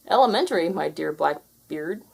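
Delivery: smug. Acted. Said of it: "replied Garfield".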